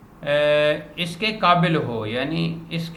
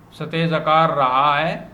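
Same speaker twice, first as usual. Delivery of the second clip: reciting verse. Acted. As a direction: recite the line of poetry with rising cadence. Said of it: "یہ علامہ کا شعر ہے".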